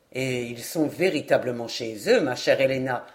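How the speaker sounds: proud lord. Acted. Narrator voices Lord Glenarvan. (lord fier, voix plus grave)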